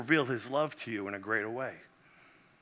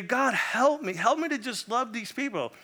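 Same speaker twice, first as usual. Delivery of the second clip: retold prayer; 7 semitones higher than usual. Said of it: "I pray and I say".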